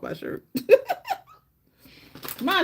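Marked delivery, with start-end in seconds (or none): 0.5-1.2 very high loud shriek of laughter; squealing laugh. Real, not acted. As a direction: burst out squealing. Caught eating crumbs on camera.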